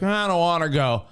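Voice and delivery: mock reluctant kid. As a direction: lightly imitate a kid balking at school. Voicing a reluctant, lazy school kid.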